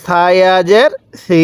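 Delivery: spelling chant ending on stretched "সি"; drawn-out vowel. Shown as a demonstration. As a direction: hold the ee in সি long. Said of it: "এক আলিফ টান দিব".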